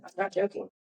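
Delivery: composed re-enactment; so calm. Retold or imitated. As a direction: restate it softly, completely unruffled. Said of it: "I was literally so calm".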